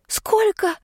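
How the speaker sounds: very high, breathed-out shocked «Сколько?»; shocked gasp. Acted. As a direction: gasp «Сколько?» in disbelief, pitch flying up. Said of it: "выдохнула я". (потрясённо выдохнутое «Сколько?», очень высоко)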